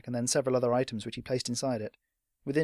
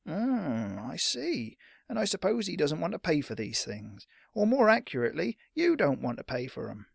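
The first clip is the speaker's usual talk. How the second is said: a higher, wary storekeeper turning cold; lightly voiced sour shopkeeper; suspicious shopkeeper; 5 semitones higher than usual. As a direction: sniff out the freeloader.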